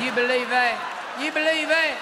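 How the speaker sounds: can't believe it, say it up high; rising disbelief, repeated; incredulous. Real, not acted.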